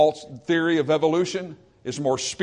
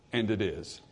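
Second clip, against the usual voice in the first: low and very soft; hushed awe; 7 semitones lower, 9 dB quieter than usual. Acted. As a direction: drop to a reverent near-whisper. Hushed closing phrase.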